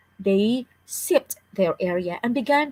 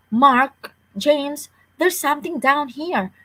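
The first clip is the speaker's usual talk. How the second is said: calling out; 5 semitones higher than usual. Acted. Father calling up from cave.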